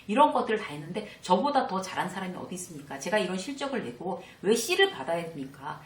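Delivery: heated, indignant complaint to the team leader; mock-angry employee confronting his boss; emotional outburst. Shown as a demonstration. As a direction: protest the unfair grade with rising irritation. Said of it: "감정적으로 팍 얘기하면".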